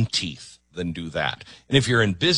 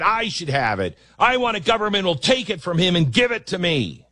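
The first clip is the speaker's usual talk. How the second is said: high, whiny mock demand for more; mocking entitled voice; 10 semitones higher than usual. Host mocking socialists who want handouts, high whiny mock voice. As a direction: sneer at them in a high greedy whine. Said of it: "Everybody right now is like".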